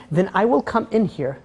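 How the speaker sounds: measured, emphatic royal ultimatum; scary powerful threat. Retold or imitated. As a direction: spell out each threat as a powerful king. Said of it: "how it gets scary when someone powerful speaks".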